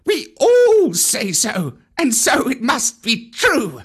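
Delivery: high, slow chanting monkey crowd; monkeys shouting. A narrator's reading. Monkeys boasting to Mowgli, high shouting chant. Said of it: "they shouted".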